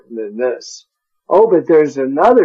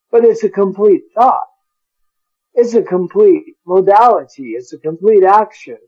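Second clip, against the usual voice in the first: building emphasis; 4 semitones higher than usual. Real, not acted. Preacher building his point.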